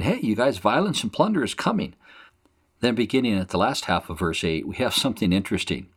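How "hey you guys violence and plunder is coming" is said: called-out warning. Retold or imitated. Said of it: "He's saying".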